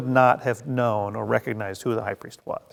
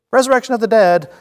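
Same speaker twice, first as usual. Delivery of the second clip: higher and louder, a hammed-up outcry; mock outcry; 9 semitones higher, 7 dB louder, faster than usual. Paul distracting the council, hammed-up louder outcry. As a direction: blurt it to start a fight. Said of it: "He looks around and goes".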